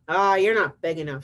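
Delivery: loud, dismissive storybook brush-off; grouchy ladybug. Acted. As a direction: brush them off like a huffy bug. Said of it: "said the grouchy ladybug".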